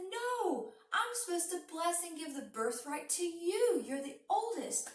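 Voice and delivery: high, bewildered insistence; can't believe what he's hearing; father protesting to Esau in confusion; confused protest. Acted. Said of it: "was so confused".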